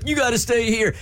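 high-pitched imitation of a husband begging her to stay; mock husband pleading. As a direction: squeak it out like a clingy husband. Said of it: "him going".

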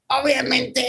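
real voice break mid-word; voice cracking. Real, not acted. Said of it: "me salió un gallo".

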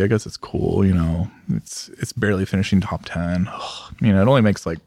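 low, deflated unimpressed; bored dismissive mumble. Retold or imitated. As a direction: sigh it off like a snob. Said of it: "you kinda go".

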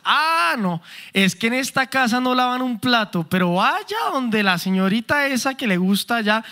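exaggerated sarcastic complaint at home. Spouse complaining about housework, sarcastic mock servility. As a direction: feign servility, meaning the opposite. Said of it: "el sarcasmo dentro de la casa".

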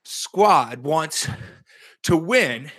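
high, slow Western gold miner twang; Antonio Brown impression. Podcaster mimics Antonio Brown's video while doing high knees, twangy impression. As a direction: do Antonio Brown like an old prospector, panting. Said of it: "what Pete would sound like doing an Antonio Brown impression".

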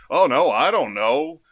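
hammed-up worried reply; anxious wrestler. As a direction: pass the question on nervously. Second wrestler answering on bus.

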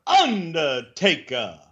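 slow dramatic announcer voice. Pretend. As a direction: drag it out like a ring announcer.

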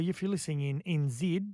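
mock Kiwi accent on "N Z"; bad New Zealand accent. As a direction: lightly put on a poor Kiwi accent. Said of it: "That was a horrible accent too".

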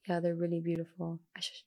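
soft breathy whisper; whispering about her chimes; whispered aside. Real, not acted. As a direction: whisper it like a secret.

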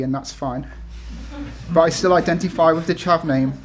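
steady, measured reading of a personal essay. Acted. Author reading title essay to audience, measured read-aloud. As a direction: read it out firmly, phrase by phrase.

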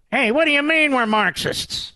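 high-pitched mock outrage from the accused; mock indignant protest. Mimics Democrats' objection to label.

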